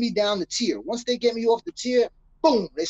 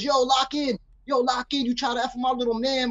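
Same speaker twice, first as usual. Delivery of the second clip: higher-pitched mock yell from another cell; imitated yelling; 3 semitones higher than usual. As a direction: call out high without real volume. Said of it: "People are yelling at him from other cells".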